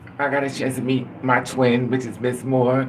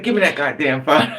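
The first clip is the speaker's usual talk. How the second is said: laughing through quote; 4 dB louder than usual. Retold or imitated. Robber demand retold, laughing.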